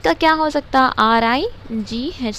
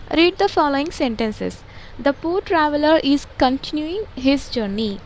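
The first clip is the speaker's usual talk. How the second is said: slow textbook reading; much slower than usual. Shown as a demonstration. Teacher reading the textbook aloud to pupils, slow and deliberate. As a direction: read each English word slowly and evenly, like dictation.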